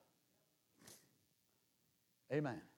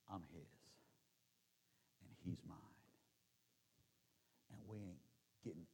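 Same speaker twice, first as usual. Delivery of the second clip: much lower, much softer whisper; whispered vow; 9 semitones lower, 20 dB quieter, faster than usual. Acted. The world hears the believer's life say, whispered. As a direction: breathe it like a private confession. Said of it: "ought to say".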